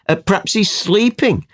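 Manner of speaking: high-pitched mock suggestion; taunting. Retelling Elijah mocking a sleeping god, taunting. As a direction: tease them, starting high and hurrying the end. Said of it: "Hear the taunts".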